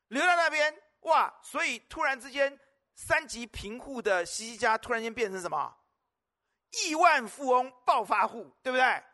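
preacher wowing the congregation; excited exclaiming. Acted. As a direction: marvel aloud at the riches. Preacher exclaims over the sudden wealth.

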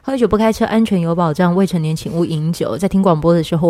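rattled-off radio warning; fast legal disclaimer. Shown as a demonstration. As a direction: read it like a PSA. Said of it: "我都还是要做这个警语".

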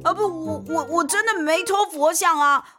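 put-on cornered young man pleading; helpless stammer. A narrator's reading. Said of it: "年轻人很无奈地说".

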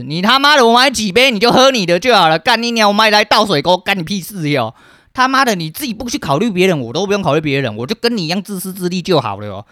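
loud, high swearing tirade; angry rant. Real, not acted. Ranting at mom over buying two drinks, loud and angry. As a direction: fire it back, fully fed up. Ranting about mother's complaint.

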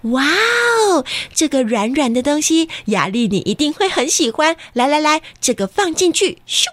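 bright excited mom voice; high cheerful mom cooing; mother's voice. Acted. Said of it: "也会听到妈妈说".

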